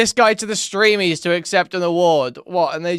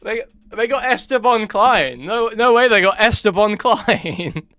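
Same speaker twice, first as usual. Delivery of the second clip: laughing through the words; can't believe it, laughing; laughing disbelief; 4 semitones higher, 3 dB louder than usual. Real, not acted. Laughing at the wrong name.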